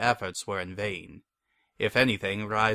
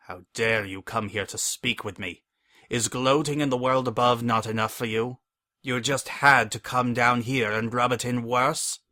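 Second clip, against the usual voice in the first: rising into a furious rebuke; building outrage, louder each line; angry; 4 dB louder than usual. Acted. Furious prisoner confronts betrayer.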